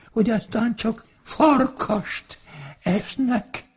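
high, breathless fox gabbling a warning; frightened fox. Acted. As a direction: blurt it out, scared out of its wits. Fox warns wolf in panic.

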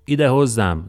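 loud, high call to the guards. A narrator's reading. Pilate summons the guards, a loud high call. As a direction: summon them from afar. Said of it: "szólította azután az őrséget".

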